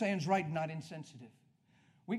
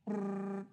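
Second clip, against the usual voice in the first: trilled imitation of a ringing phone; phone ringing noise; 4 semitones higher than usual. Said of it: "phone rings".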